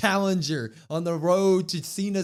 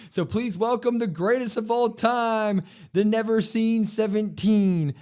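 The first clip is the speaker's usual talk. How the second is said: louder, higher mock ring-announcer build; hyped-up announcer intro; 5 semitones higher, 4 dB louder than usual. Announcer hyping the crowd for John Cena, mock grand. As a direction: belt it out like a big arena introduction.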